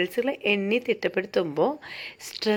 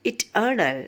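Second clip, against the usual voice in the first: "eternal" with the stress on TER; stress on middle syllable; much slower than usual. Shown as a demonstration. Teacher shows an amphibrachic word, middle syllable of "eternal" stressed. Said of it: "stress on the middle syllable".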